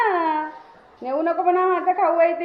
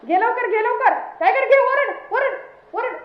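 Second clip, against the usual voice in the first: high-pitched repeated urging; excited egging-on; 7 semitones higher than usual. Pretend. Owner pushing the dog to bark harder, excited urging. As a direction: spur the dog on, high and insistent.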